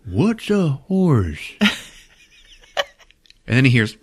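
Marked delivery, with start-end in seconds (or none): 0.1-1.5 slow, wide-eyed creature wonder; amazed merman. Retold or imitated. Merman watching TV for the first time, slow amazement. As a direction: marvel slowly at the talking horse.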